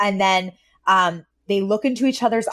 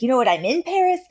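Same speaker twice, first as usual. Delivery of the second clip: swept-up, higher-pitched declaration; mock impassioned; 4 semitones higher than usual. Mister Sheffield rediscovering his passion, retold excitedly. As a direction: proclaim it with playful grandeur.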